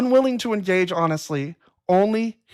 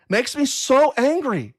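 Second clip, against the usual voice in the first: "so" stressed, higher and slow; mild real anger; 5 semitones higher, slower than usual. Real, not acted. Host fuming at trolls, slow mild anger. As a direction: drag out "so angry" with mild heat. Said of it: "It makes me so angry".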